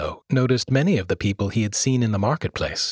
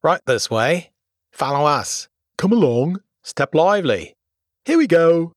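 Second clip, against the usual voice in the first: cheerful calls, louder and higher; shouting; 7 semitones higher, 5 dB louder than usual. A narrator's reading. Attendants hurrying the guests up the stairs, shouting. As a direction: call out eagerly to the guests. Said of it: "they shouted".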